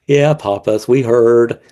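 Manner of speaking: a lightly put-on pet voice; the dogs replying to their owner, mildly voiced; dogs' voice. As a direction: answer wearily as the dog.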